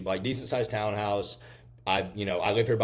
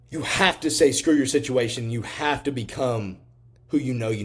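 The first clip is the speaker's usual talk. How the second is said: fired-up push; 4 semitones higher, 6 dB louder than usual. Real, not acted. Motivational push to audience.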